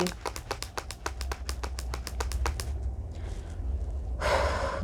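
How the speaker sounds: long, quiet exhale of exasperation; exasperated sigh. Real, not acted. Fan fed up with a reality star, exasperated sigh. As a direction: let out a weary sigh.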